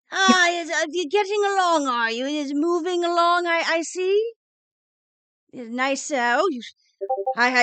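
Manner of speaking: put-on condescending old dean. Dean patronizes the retiring professor about her old bones, condescending. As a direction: talk down to her like a fussy elder. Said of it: "rather condescendingly".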